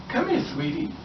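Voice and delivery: high, soft mock sweet-talk. Man luring the girl, high mock coo. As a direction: coo it like a creep luring her.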